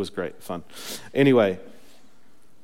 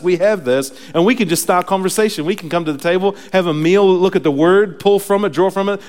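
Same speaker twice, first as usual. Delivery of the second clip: raised, driving sermon voice; impassioned preaching; 7 semitones higher, 7 dB louder than usual. Real, not acted. Preacher tells believers of God dwelling in them, impassioned. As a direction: preach it with rising fervor.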